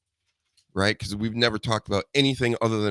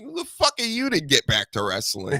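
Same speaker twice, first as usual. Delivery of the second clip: laughing mock outburst at guests; half-laughing imitation of snapping at a guest; laughing while acting out telling off a guest; retold snap; 6 semitones higher, 3 dB louder than usual. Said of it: "screaming at my guests".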